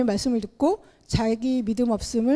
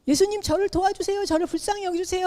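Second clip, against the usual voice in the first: mock shout; 8 semitones higher than usual. Bartimaeus ignoring the crowd, high mock plea. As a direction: beg for mercy in a raised, urgent pitch. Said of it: "소리를 막 지르면서".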